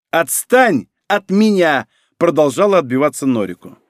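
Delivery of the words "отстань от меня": slow, high cry of protest; indignant shout. A narrator's reading. Норико shouts across a big room, indignant. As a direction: fend them off with a drawn-out yell. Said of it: "Кричала она".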